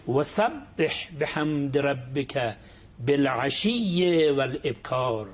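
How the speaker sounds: slow, measured chanted verse; slow Quranic recitation. Acted. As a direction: recite the verse slowly and reverently.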